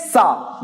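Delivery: "sa" with a hissed s sound; s sound demo. Shown as a demonstration. Teacher shows German Z sound, "sa" with an s. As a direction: say "sa" with s, as in Hindi. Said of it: "it is pronounced to be as S".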